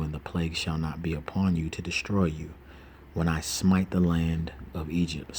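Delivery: slow, measured Bible reading; scripture reading. Acted. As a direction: read the verses slowly and solemnly. Reads Exodus aloud.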